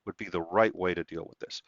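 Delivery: understated, composed questioning; calm. Retold or imitated. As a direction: imitate someone asking gently and evenly. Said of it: "she very calmly".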